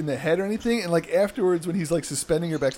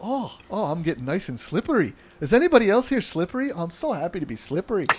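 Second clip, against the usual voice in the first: a lightly voiced beaming wrestler; mild mock cheer; giddy oily Finn. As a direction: gush happily. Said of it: "just be the oil guy".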